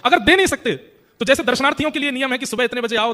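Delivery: desperate plea. Acted. Kale Khan desperately begging Goswami ji for the servant. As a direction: cry out with joined hands.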